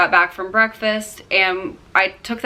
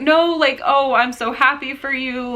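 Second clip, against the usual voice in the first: imitated gushing reassurance, higher-pitched; Sierra; 6 semitones higher than usual. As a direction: reassure like a delighted caller, voice raised in pitch. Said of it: "she's like".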